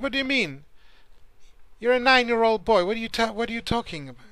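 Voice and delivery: put-on a touch of a father scoffing at a child; incredulous father. Father scoffs at his nine-year-old son, mildly incredulous. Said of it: "he was really upset".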